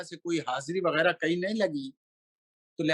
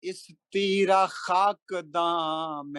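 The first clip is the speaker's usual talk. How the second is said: slow melodic chanted Urdu verse; stately nazm recitation; 2 semitones higher, much slower than usual. Acted. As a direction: intone each line like a mushaira poet. Recites a manqabat at a gathering.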